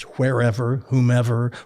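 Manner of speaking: "wherever" and "whomever" with an audible puff on the WH; breathy WH. Shown as a demonstration. Reciting the teacher's word list, "wherever", "whomever" with stressed WH. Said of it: "a lot of W H words".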